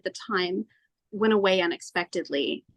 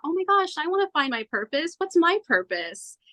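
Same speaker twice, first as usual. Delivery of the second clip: higher, excited pitch, slowing into the question; eager self-talk; 9 semitones higher than usual. Retold or imitated. Woman recalling her search for a purpose, eager and excited. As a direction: voice her past self's hopeful eagerness.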